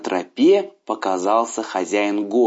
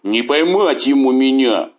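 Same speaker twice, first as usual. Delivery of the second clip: bragging beast, proud of himself; growling tiger voice; 3 dB louder than usual. A narrator's reading. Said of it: "расхвастался". (хвастливый громкий голос тигра)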